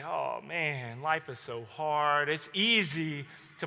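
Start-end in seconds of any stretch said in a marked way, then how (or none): 0.0-2.3 mock whine. Mocking self-pitying whine.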